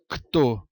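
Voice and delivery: "Cto" sounded as a hard "k", then "to"; isolated consonant sounds. Shown as a demonstration. Teacher pointing out the split cluster, "Cto" sounded out. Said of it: "O C está na sílaba anterior".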